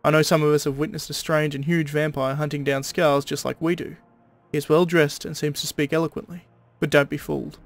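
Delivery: steady Aussie twang, read like a stern proclamation; a guard leader's decree in an Australian accent. Acted. Guard founder warns his men against vampires, Australian accent. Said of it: "I made him more Australian than I am".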